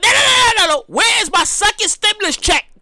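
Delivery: comic indignant shout; mock outraged demand. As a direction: rant about the missing check. Ranting about stimulus.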